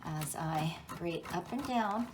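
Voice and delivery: breathing hard while grating; winded from the workout. Real, not acted. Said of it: "you can hear me getting out of breath".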